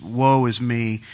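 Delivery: slow, lightly moaned lament; drawn-out mild self-pity; mock woe. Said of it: "He's whining. He's moaning".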